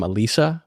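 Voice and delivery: "Elisa" with a long ee in the middle; "Elisa" stressed on a drawn-out LEE; romanticized pronunciation. Shown as a demonstration. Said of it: "I would pronounce her name".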